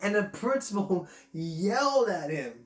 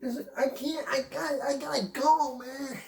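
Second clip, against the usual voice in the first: higher, urgent plea of a man who must go; urgently pleading to use the toilet; desperate man; 5 semitones higher than usual. Acted. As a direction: beg to be let through, voice pitched up. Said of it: "I gotta take a crap".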